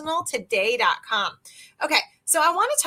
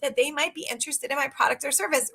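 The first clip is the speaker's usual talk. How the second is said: surprised realization. Retold or imitated. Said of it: "Are you like".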